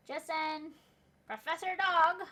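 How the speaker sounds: loud, high happy call; excited greeting. Acted. Students spotting the dog professor, excited shout. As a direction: call out to him with delight.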